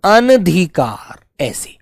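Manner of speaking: अनधिकार said slowly with a short अ, no आ; slow sounding out. Shown as a demonstration. Teacher showing how to say अनधिकार. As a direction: stretch अनधिकार evenly. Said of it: "आ की आवाज मत ले आना".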